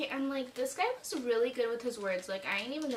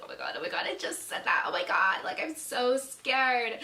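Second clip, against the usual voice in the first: retold freaking out. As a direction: replay a mild freak-out for the listeners. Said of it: "I'm, like, freaking out".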